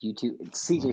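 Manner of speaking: loud breaths into the mic; breathing hard between words; heavy nose breathing. Real, not acted. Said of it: "stop breathing into the mic".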